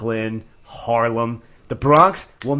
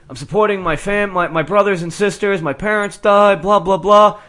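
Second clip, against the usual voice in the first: lightly imitated subway sob story, pitched up; mock a kid's rehearsed plea, building to a dismissive finish; mocked begging kid; 4 semitones higher than usual. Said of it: "Well, this kid's like".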